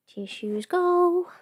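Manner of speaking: whisper. Real, not acted. Whispering to herself.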